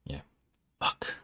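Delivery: short, low-key mutter; acted mutter under the breath. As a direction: mutter a curse to yourself. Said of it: "you hear him mutter".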